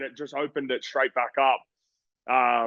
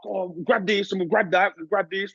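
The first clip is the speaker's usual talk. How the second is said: imitating the managers; 6 semitones higher than usual. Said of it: "they're like".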